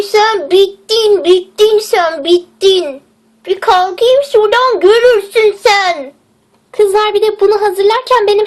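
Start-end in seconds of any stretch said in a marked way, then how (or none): 0.0-6.1 slow, menacing warning; mock threat. Paralysed girl warns Papi, slow mock threat. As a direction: drag out the threat. Threatens friend who poisoned her.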